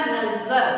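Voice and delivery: नजर with a stressed buzzing z; nukta z pronunciation. Shown as a demonstration. Teacher asking pupils to notice, नजर with stressed z. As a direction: lean on the z in नजर, as nazar. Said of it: "देखिए बोलने वाला".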